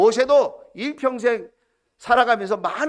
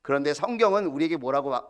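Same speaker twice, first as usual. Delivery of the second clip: ordinary talk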